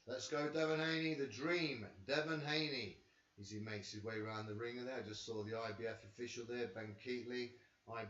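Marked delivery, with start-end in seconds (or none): 0.1-3.0 louder, higher hype for the fighter; hyped cheering. Real, not acted. Vlogger cheering Devin Haney's ring walk, loud and excited.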